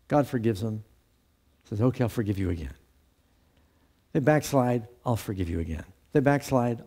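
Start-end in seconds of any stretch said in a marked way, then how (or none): 1.8-2.7 resigned forgiveness. Retold or imitated. Voicing God forgiving again. 5.0-5.8 lower, softer, patient sigh; a long-suffering God giving in, low and soft; resigned forgiveness. Retold or imitated. Voicing God forgiving again.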